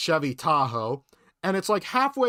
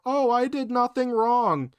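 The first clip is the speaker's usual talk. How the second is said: mocking whine; 8 semitones higher, slower than usual. Mocking her excuse.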